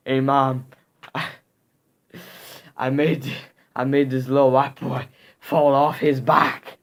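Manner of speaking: loud, exaggerated put-on kid voice; mocking kid impression. Kid bragging to mom when he comes home, mocking impression. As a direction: do a crude, mocking imitation of the boy, loudly. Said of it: "really messed up voice reputa-, representation".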